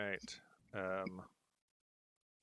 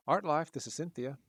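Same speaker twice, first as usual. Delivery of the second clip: higher, louder tired woman on the phone; tired receptionist; 7 semitones higher, 5 dB louder than usual. Acted. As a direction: answer the phone like a worn-out office clerk. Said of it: "you hear a tired female voice say".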